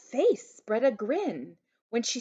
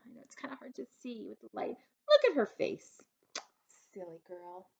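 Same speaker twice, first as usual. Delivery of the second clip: quiet aside; 2 semitones higher, 5 dB quieter, faster than usual. Real, not acted. Aside to listening children.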